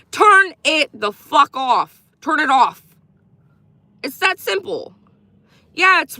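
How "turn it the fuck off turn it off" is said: exasperated command. Real, not acted. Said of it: "repeated command".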